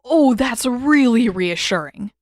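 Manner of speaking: high, slow, loud nervous sarcasm; voice too high. Acted. Sokka panicking about the face-eater, voice too high. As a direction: squeak out the sarcasm. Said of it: "voice higher than it should have been".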